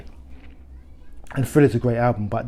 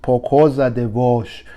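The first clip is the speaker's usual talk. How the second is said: wannabe Portuguese accent. Shown as a demonstration. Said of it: "with my wannabe Portuguese accent".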